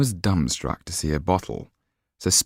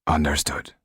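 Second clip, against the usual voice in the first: said sadly; 3 semitones lower than usual. Acted. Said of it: "Monsieur Hollard said sadly".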